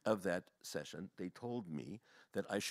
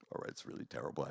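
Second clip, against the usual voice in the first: subdued sympathy; 7 semitones lower, 6 dB quieter, faster than usual. Retold or imitated. Consoling crying counselors in retold scene.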